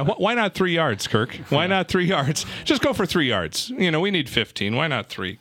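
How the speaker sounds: second-guess the play call like a bitter fan; exasperated pleading. Pretend. Mock complaint to football coach.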